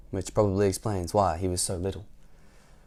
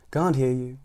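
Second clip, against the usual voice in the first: roar; 2 semitones higher than usual. Acted. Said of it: "roared the milkman".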